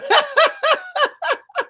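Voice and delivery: a bright burst of laughter after getting fired up; high laugh at herself. Real, not acted. Coach laughing at her own excitement, high laugh. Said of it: "Y'all know I get fired up".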